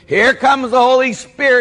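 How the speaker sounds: high, loud stage-preacher hype; Benny Hinn. Retold or imitated. TV preacher rousing a stadium, hyped-up shouting. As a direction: imitate a faith healer working up a crowd. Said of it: "and he goes".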